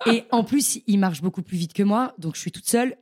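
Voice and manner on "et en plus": laughs high then carries on; a real laugh spilling into the words; amused laugh mid-story. Real, not acted. Laughs at her own story.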